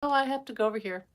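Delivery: quick, polite excuse; not rude. Retold or imitated. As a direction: re-enact politely bowing out. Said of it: "Didn't do it in a rude way".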